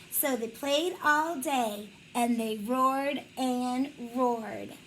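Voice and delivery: very slow, x0.5 on "roared and roared"; slow storybook ending. Acted. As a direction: stretch the roaring line out slowly.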